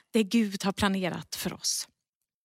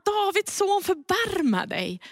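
high, pleading call, pitch jumping up; crying out; 8 semitones higher than usual. Retold or imitated. Beggar crying out to Jesus, high pleading call. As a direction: lift the voice to call across the crowd.

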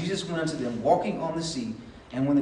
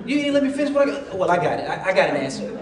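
eager interrupting; 5 dB louder, faster than usual. Acted. Acting out someone who interrupts.

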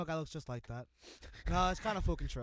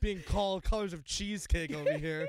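laughing. Real, not acted. Roasted, laughing through complaint.

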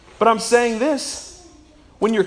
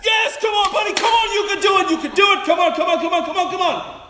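cheering parent; 11 semitones higher than usual. Retold or imitated. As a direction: cheer the toddler on, fading down. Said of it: "the parents were like".

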